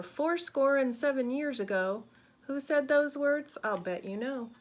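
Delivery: put-on lively, expressive reading to children; rhythmic, emphatic storybook voice; picture-book read-aloud. A narrator's reading. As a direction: read it brightly to a class of kids.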